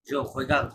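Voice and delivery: "regarde" with the last vowel dropped; reduced final sound. Shown as a demonstration. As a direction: let "regarde" finish on a light d. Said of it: "একটু কম হবে sound".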